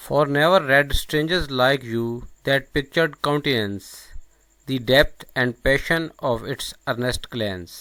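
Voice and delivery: loud, measured verse reading; poem recitation. Acted. Lecturer reciting Browning's Duke to viewers, loud measured recitation. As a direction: recite each phrase slowly and firmly.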